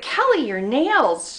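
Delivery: high, drawn-out mock complaint; protesting friend. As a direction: imitate a friend whining at being poked. Acts out friend protesting pokes.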